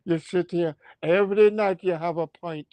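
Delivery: a light mock Scottish brogue, Braveheart style; hammed-up Highlander rant in a Scottish lilt; Scottish accent. Clansman scolding the chief Alaric, in a mild Scottish accent. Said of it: "That Scottish gotta come out".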